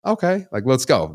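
a sudden high burst of fired-up resolve; pumped up. Retold or imitated. Fired up after friends cheer him on, high excited shout. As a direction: jump up in pitch, ready to charge. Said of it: "And now I'm like".

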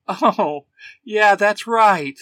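high, loud, drawn-out taunt; taunting mock realization; mocking villain. A narrator's reading. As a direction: gloat over it slowly. Villain mocks the fallen team.

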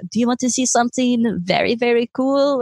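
put-on French accent; bad French accent. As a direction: imitate a French guide tempting tourists. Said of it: "this is a horrible French accent".

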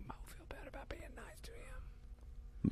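breathy unvoiced whisper. Real, not acted. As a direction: whisper so he can't hear. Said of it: "Why are you whispering that?".

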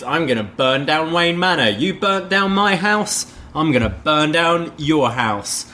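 mock villain threat. Villain swearing to burn Bruce's house, mock menace.

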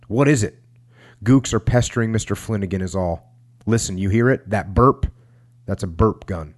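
firm, deliberate dramatic read-aloud; book narration. A narrator's reading. Host reads the night mortar scene to listeners, deliberate narration. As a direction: punch out each phrase, then pause.

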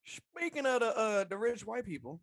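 mock West Virginia twang; West Virginia accent. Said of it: "is that not a good West Virginia voice".

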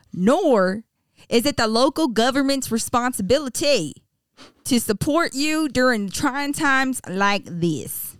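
put-on stern Texas accent reading. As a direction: read it like a gruff Texas mayor. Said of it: "I'm gonna be reading this in a Texas accent".

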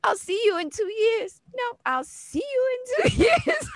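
put-on high West African accent, teasing nurse; playful nurse in a West African accent. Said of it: "beautiful West African accent".

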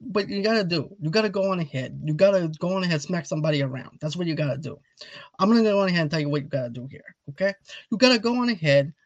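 put-on Italian-American accent, punchy repeated instructions; Robert De Niro. Host coaching someone down the catwalk, in a playful Italian-American impression. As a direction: play an Italian-American giving orders. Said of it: "If you wanna do an Italian impression, to be like Robert De Niro".

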